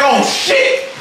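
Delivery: high, hyped-up retold shriek; squealed astonishment, stretched out; energy suddenly changed. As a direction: explode upward in amazed excitement. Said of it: "my energy done changed".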